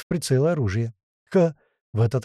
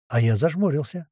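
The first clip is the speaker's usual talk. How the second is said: ordinary delivery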